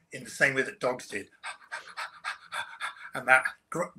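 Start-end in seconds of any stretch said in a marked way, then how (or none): 1.4-3.1 panting like a dog. Shown as a demonstration. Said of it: "that panting noise".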